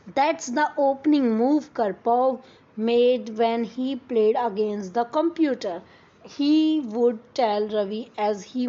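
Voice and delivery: slow, careful read-aloud of the English text; story reading. Acted. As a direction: read each word out slowly for the class. (धीमी आवाज़ में कहानी पढ़ना)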